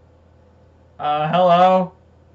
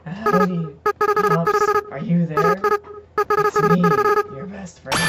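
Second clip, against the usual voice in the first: Flowey voice. Acted. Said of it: "I guess I'll do my floppy voice".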